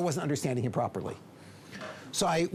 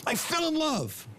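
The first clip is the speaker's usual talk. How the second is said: high, drawn-out upset wail; boiling with anger; 13 semitones higher, slower than usual. Acted. Furious man confessing to his counselor, boiling over. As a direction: wail it out in high-pitched outrage. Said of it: "boiling over with anger".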